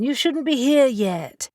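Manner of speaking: concerned secretary. Acted. Worried secretary greets boss.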